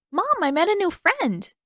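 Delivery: put-on high little boy announcing; excited announcement. A narrator's reading. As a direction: call out proudly to mom. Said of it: "the boy announced".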